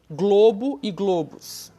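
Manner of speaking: slow "globo e globos", both with a closed O. Shown as a demonstration. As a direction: round the stressed O in "globo e globos" as "oh". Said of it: "glo, fechadinho".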